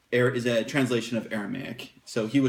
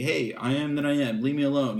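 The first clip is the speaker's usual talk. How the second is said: mildly emphatic imagined retort; 2 semitones higher than usual. Acted. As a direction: lightly act out someone asserting themselves. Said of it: "It's like an emphatic way of saying that".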